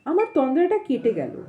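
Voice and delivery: measured storytelling with pauses between phrases; unhurried audiobook-style reading; story narration. A narrator's reading. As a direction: read the tale aloud, phrase by phrase. Reads the story aloud.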